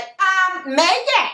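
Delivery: imitating a worried doctor, pitched well up; high mock-concerned doctor voice; concerned physician. Doctor calling a patient with bad news, in a high concerned voice. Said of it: "That's how she talks".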